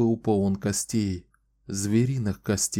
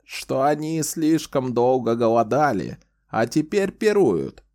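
high, louder whining complaint; plaintive; 4 semitones higher, 3 dB louder than usual. Acted. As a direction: whine it like a starving man. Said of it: "продолжил он жалобным голосом".

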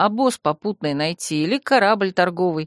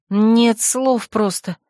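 indignant exhale; 2 semitones higher, much slower than usual. Acted. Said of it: "возмущённо выдохнула я".

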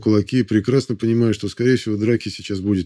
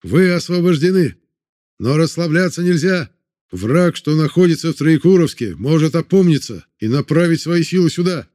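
a high, loud call to the whole crowd; loud shout; 6 semitones higher than usual. A narrator's reading. Chekist addressing freed prisoners, loud rallying shout. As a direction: shout it so the back rows hear. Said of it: "громко как мог кричал чекист".

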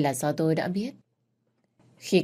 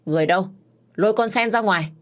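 stern order; 4 semitones higher, 5 dB louder, faster than usual. Acted. Master orders maid dragged out.

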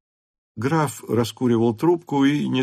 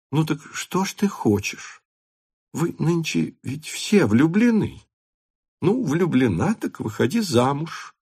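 crossly laughing; 5 semitones higher than usual. A narrator's reading. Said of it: "сердито смеясь".

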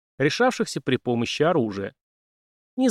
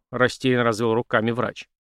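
ordinary delivery, nothing marked

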